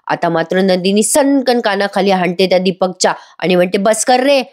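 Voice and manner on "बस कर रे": higher-pitched retold outburst; mock anger. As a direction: put a touch of anger into it. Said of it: "आता चिडते बरं का नंदिनी खूप".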